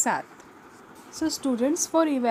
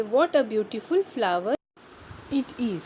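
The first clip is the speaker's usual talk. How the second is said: exclamation; much slower than usual. Shown as a demonstration. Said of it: "जब आश्चर्य व्यक्त करते हैं".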